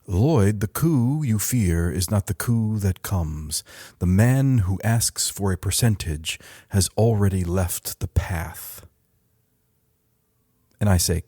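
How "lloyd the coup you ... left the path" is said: lightly voiced, measured AI monk; a hint of a calm digital monk, fading at the end. AI answering Lloyd's coup question, lightly voiced calm monk. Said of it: "calm digital monk voice".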